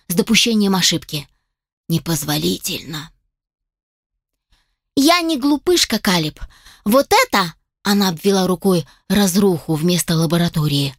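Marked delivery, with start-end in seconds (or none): 5.0-7.5 put-on higher, indignant young woman; angry elf girl. Elf assistant scolds the dragon inventor, higher indignant voice. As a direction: scold him with hurt pride.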